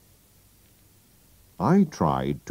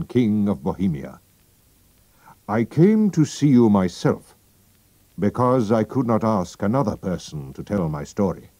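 king's voice; 4 semitones higher than usual. Acted. King admitting his identity to Holmes, stately. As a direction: declare yourself with dignity.

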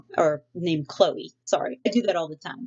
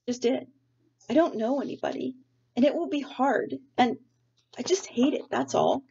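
put-on a sulky kid digging in her heels, stretched out; stubborn girl's protest; 7 semitones higher than usual. Sarah refusing to get out of bed for school, whiny and high.

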